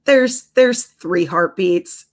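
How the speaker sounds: slow, drawn-out news breaking; reluctant technician, acted. Technician breaking triplet news to mother, slow acted reluctance. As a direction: stretch it out like delaying bad news. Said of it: "She's like".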